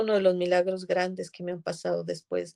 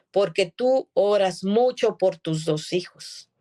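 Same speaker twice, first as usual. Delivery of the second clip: louder and slow, firm and deliberate; speaking firmly; 7 dB louder, slower than usual. Retold or imitated. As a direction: lay the truth down with authority. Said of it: "tuve que hablarle fuerte". (hablando fuerte y pausado)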